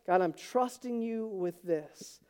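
hushed sincere plea; quiet surrender prayer. Retold or imitated. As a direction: hand it over to God gently. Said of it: "turn over to him and say".

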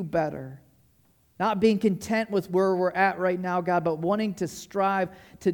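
measured, earnest public prayer. Real, not acted. Leads the congregation in prayer.

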